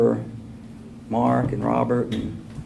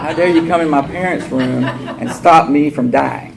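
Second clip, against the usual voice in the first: laughing while faking indignation; mock outrage through laughter; 2 semitones higher, 4 dB louder than usual. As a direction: act furious but crack up. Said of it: "I was pissed".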